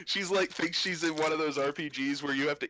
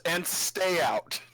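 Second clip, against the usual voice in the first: drawn-out, slightly raised mock yell; acted yell; 4 semitones higher, much slower than usual. Chris yells from the window at the intruders, mild acted yell. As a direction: call it out slowly, only half-yelled. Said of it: "the window and yells".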